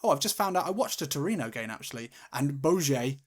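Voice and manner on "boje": "Boje" spoken slowly, two syllables; pronunciation demo. Shown as a demonstration. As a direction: show how "Boje" is pronounced. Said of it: "which is actually how you pronounce boy".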